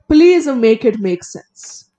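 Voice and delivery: slow pleading exasperation; exasperated plea. Real, not acted. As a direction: beg for it to add up, drawn out. Exasperated plea about the sentence.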